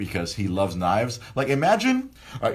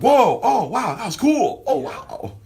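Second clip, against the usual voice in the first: much higher, wide-eyed wow from a first-time fan; imitating an awed teen; 6 dB louder, slower than usual. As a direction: gush like a kid seeing his first big move. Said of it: "he was emoting and he was like".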